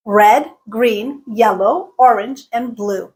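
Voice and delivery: RED, GREEN, YELLOW, ORANGE rising, BLUE dropping; rise-fall list intonation. Shown as a demonstration. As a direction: lift each color separately, then fall on BLUE. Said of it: "rise, fall intonation".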